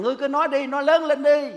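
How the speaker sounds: loud urging. Retold or imitated. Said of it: "Đáng lẽ Chúa Giêsu nói rằng".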